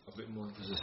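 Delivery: breathy whisper, almost inaudible. Shown as a demonstration. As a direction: whisper it to yourself first. Teacher drops voice before repeating.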